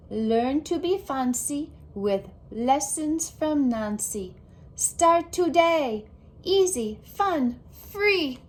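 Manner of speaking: lightly hammed-up ad read; ad announcer. Girl reading her fridge ad as a mock commercial.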